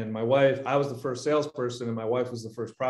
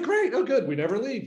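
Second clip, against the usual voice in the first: high, mock-bright sarcasm; sarcastic fake delight; mock sarcastic cheer; 9 semitones higher than usual. Sarcastic about work at home.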